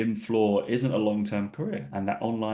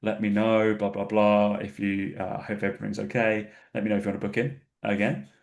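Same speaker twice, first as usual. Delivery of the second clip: passive aggressive. Retold or imitated. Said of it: "I'm very passive aggressive when I'm like".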